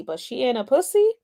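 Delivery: normal talking voice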